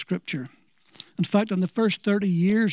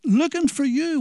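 frantic mother; 6 semitones higher than usual. Retold or imitated. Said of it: "she probably says".

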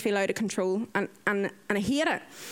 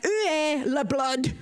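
higher, mock-frantic cry; comic exasperated wail; exasperated outburst; 5 semitones higher, slower than usual. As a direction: re-enact frantic frustration over the needle. Exasperated, imitating herself at the needle.

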